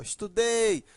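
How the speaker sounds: "estudei" with DEI held; estu-DEI, strong final syllable; stress on ending. Shown as a demonstration. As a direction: lean on the last syllable of "estudei". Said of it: "está fora do radical".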